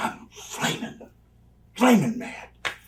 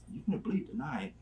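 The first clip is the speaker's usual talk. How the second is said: hushed threatening whisper; quiet menacing whisper; 10 dB quieter than usual. Retold or imitated. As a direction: whisper the threat close to his ear. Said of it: "so I say".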